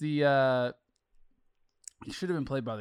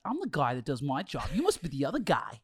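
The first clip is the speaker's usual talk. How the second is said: put-on Boston accent. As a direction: Mark Wahlberg Boston accent, lightly done. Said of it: "Can you do a Boston accent?".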